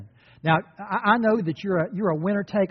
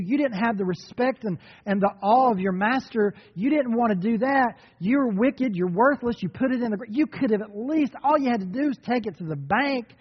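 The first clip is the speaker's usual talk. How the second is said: scolding rebuke; 4 semitones higher than usual. Acted. Preacher scolding the lazy servant.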